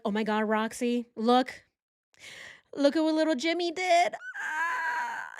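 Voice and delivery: a hint of a proud parent calling out; lightly voiced excited parent. Parent showing friend child's drawing, mock excited. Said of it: "they're like".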